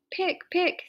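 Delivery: high, coaxing call to a pig; kind voice. A narrator's reading. Farmer lures Wilbur with slops, kind coaxing. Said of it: "in a kind voice".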